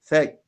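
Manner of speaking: "fek" with a little breath after the k; hams on kaf. Shown as a demonstration. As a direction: release the k of "fek" with a slight h. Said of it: "a little bit ha comes out".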